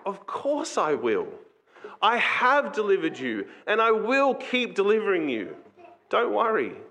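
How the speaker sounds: a touch of heartfelt divine promise; all-loving Father. Acted. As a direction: reassure a pleading child as a loving father. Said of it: "all-loving Father answers that".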